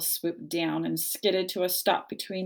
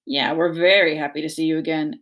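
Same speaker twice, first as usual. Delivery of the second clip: echoing bear; 2 semitones lower, 5 dB louder than usual. Acted. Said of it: "echoed the brother bear".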